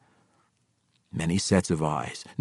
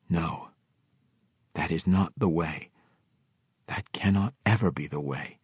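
calmed; 3 dB quieter than usual. Acted. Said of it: "He stepped back then and calmed".

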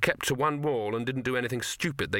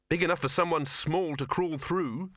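encouraging; 5 semitones higher than usual. A narrator's reading. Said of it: "said Victor encouragingly".

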